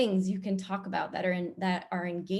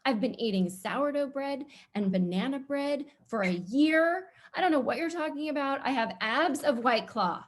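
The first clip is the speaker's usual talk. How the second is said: higher, brash mock retort to the email; hammed-up defiant clapback, mostly higher; mock sassy comeback; 4 semitones higher than usual. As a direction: toss it back like a proud fifty-year-old. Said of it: "I'm gonna be like".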